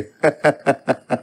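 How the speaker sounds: short run of staccato chuckles; father's teasing ha-ha laugh. A narrator's reading. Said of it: "हसू लागले".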